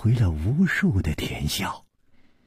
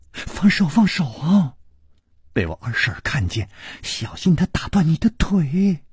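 higher, hurried anxious plea; urgent whisper-plea to let go; 5 semitones higher than usual. Acted. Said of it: "石秀云着急说".

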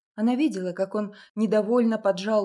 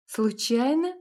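suspicious; 4 semitones higher, 4 dB louder, slower than usual. A narrator's reading. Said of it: "переспросила подозрительно она".

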